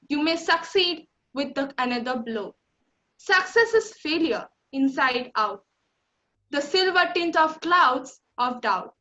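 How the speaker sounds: measured verse delivery with pauses between phrases; poem recitation. Acted. Student reciting Don't Quit to the school, earnest recitation. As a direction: recite line by line, lifting then falling at each close.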